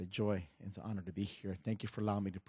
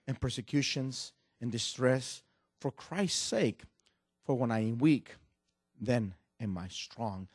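measured, louder Bible reading; scripture reading; 4 dB louder than usual. Acted. Preacher reading Corinthians to the church, solemn and measured. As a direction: read the verses with weight.

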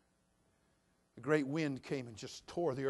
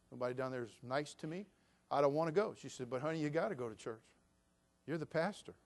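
soft, low storytelling; deadpan church joke; quiet joke telling; 4 semitones lower, 7 dB quieter, faster than usual. Acted. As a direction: tell it low and dry.

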